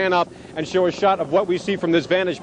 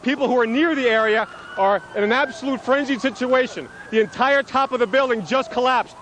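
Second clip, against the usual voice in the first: urgent alarmed; 6 semitones higher than usual. Real, not acted. Reporter as tower collapses nearby.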